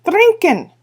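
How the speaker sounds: high, loud war-cry; proud shout. Acted. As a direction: yell it like a boast to the chief. Feegles roar their boast.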